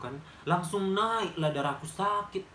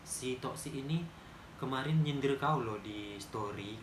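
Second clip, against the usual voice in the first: friend warning softly; 3 semitones lower, 6 dB quieter than usual. Retold or imitated. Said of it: "Katanya gini".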